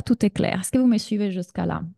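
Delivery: ordinary talk, nothing marked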